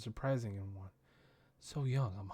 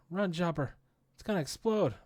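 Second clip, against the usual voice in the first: urgent warning; 6 semitones higher, 5 dB louder than usual. Acted. Hiluluk's experiment about to explode.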